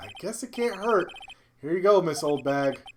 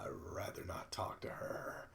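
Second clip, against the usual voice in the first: whispering; 12 semitones lower, 21 dB quieter than usual. Real, not acted. Aside about dreaded character.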